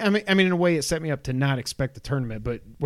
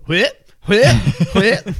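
loud, higher chanted whip; game sound yell; 7 semitones higher, 10 dB louder, much slower than usual. Retold or imitated. Gamer imitating Mortal Kombat move sounds, loud mock chant. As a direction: bark it like a button-mashing game grunt. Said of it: "you just go".

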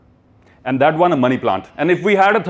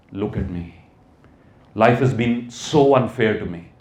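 whiny victim; 6 semitones lower, slower than usual. Retold or imitated. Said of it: "by saying".

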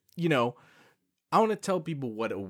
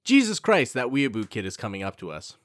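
annoyed friend. Retold or imitated.

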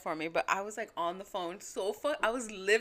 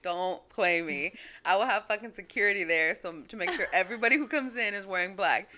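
mock stern rant; 4 dB louder than usual. Telling mom off about funeral rules, mock stern and loud. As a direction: lay down the law about my funeral.

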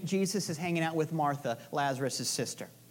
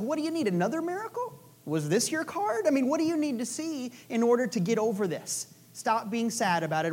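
exasperated mock Jesus; 4 semitones higher than usual. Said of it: "It's like".

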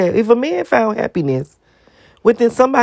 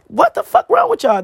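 exasperated outburst. Real, not acted. Ranting at commenters who mock another woman, exasperated high outburst. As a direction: throw up your hands at them, voice jumping up.

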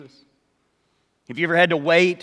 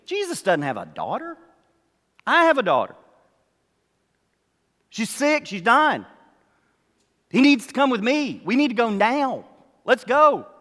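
higher, pressing, desperate father; urgent pleading; 6 semitones higher, 3 dB louder than usual. Acted. Jairus urging Jesus to hurry, high and desperate. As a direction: push it, his child is dying.

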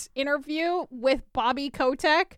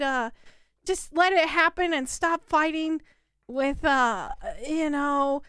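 begging voicemail; 2 semitones higher, slower than usual. Retold or imitated. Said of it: "sad voicemails of begging".

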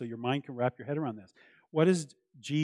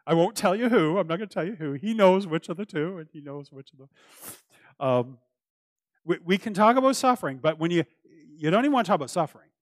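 playful teasing; 4 semitones higher, 8 dB louder than usual. Real, not acted. Teasing his brother Mark.

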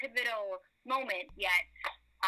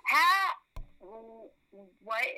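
retold surprise; 5 dB louder than usual. Stunned by podcast growth.

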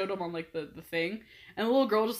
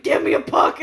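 high, loud imitated little-girl demand; intense kid demand; 8 semitones higher, 11 dB louder than usual. Little girl begging players for a puck, intense imitation. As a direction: demand it like an overexcited young fan. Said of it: "she was really intense about it".

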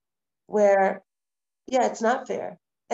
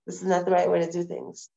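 quiet self-reflection; 5 semitones lower than usual. Retold or imitated. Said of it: "and say".

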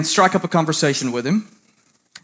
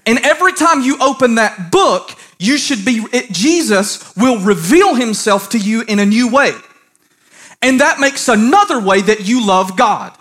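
emphatic, raised preaching voice; 6 semitones higher, 4 dB louder than usual. Real, not acted. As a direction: preach it firmly in measured phrases.

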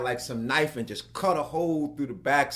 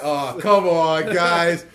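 exasperated; 4 semitones higher, 11 dB louder, much slower than usual. Retold or imitated. Thinks crew is pranking him.

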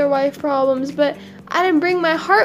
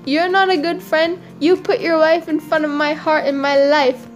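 higher, mock-outraged rebuke; indignant monkey; 4 semitones higher than usual. Monkey rebuking crocodile for betrayal, indignant. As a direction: tell off a false friend.

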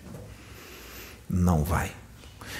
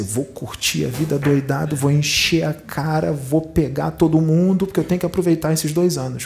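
higher, hammed-up party bravado; imitated giddy determination, pitched up; mock reckless excitement; 4 semitones higher than usual. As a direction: act out someone eager to go wild. Imagined reckless reaction to news.

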